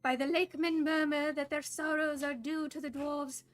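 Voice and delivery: a hint of a squeaky house elf. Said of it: "go with the house elf voice".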